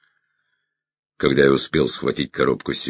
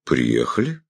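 phlegmatic. Acted. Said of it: "флегматично кивнул".

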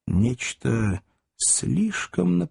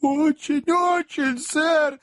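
high eager assurance; much slower than usual. A narrator's reading. Job earnestly fakes sincerity.

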